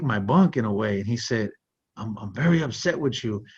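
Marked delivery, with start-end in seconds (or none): 2.0-3.4 imitating an older Pakistani cellmate's accent; lightly put-on Pakistani accent, measured delivery. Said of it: "in this thick Pakistani accent".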